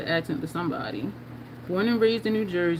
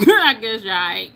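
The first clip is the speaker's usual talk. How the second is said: laughing; 10 semitones higher, 9 dB louder than usual. Real, not acted. Laughing at a viewer's comment.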